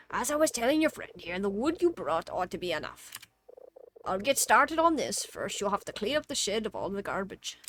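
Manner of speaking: lively put-on quest-giver voice, swooping pitch; hammy foreman handing out a job; game character voice. Game character giving orders to clean the shed, lively character voice.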